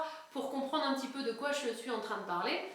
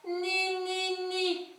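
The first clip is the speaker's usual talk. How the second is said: clear tone exercise; 4 semitones higher, much slower than usual. Shown as a demonstration. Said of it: "un son net".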